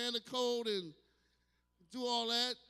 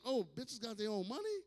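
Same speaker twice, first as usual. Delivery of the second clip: rising to a high, strained squeak of confusion; bewildered disbelief; 5 semitones higher than usual. Retold or imitated. Confused man reacting to Bitchcoin, rising disbelief. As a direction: sound baffled by bitch money. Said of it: "I'm like".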